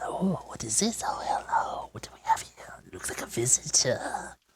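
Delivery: small, breathy, whispered little creature voice. Voicing small creatures peering out of the rocks at a visitor: little creature voices. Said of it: "you can hear little voices".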